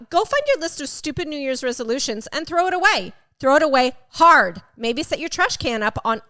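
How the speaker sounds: emphatic rant read aloud, loud on HARD; mildly hammed-up angry instructions; mock angry reading. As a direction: read out an irritated tirade with relish. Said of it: "Okay, he's angry".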